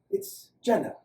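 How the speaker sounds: tentative and tender; gentle. A narrator's reading. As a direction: ask it kindly, easing off at the end. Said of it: "Doctor Goran asked gently".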